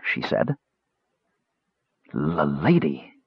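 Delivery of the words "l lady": stammered. A narrator's reading. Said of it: "Rapaldo stammered".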